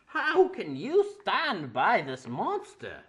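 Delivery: loud, high, slow bad British accent; a hammed-up British villain; horrible British accent. Demon Bash accuses the ponies in a bad British accent.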